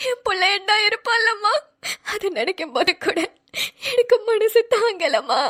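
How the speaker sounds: crying through the words as she thinks of her lost son; a mother sobbing her thanks; tearful pleading. Acted. Mother weeping over lost son.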